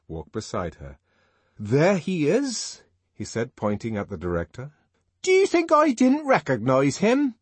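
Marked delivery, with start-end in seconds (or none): 1.6-2.8 slow, high, loud reveal; single him out before everyone; pointed announcement. Acted. Bernard points out the director. 5.2-7.3 high, loud indignant question. A narrator's reading. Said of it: "Linda asked indignantly".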